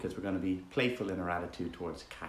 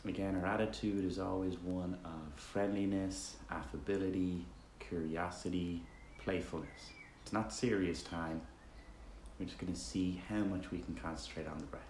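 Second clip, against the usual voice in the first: easygoing meditation guide, softer toward phrase ends; relaxed, conversational meditation leading with roomy silences; guided meditation; 7 dB quieter than usual. Acted. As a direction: guide listeners gently with long pauses between instructions.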